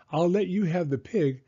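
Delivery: put-on high child voice cutting a deal; bargaining kid. A narrator's reading. Son countering mom's offer, high bargaining voice. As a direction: negotiate as a small boy. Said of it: "countered Spencer".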